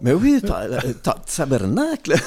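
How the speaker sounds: laughing, hammed-up Québécois swear; a badly faked Canadian accent, said through a laugh; mock Canadian accent. Host asks for his bad Canadian accent, mock Québécois swear. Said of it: "je peux te demander de le faire".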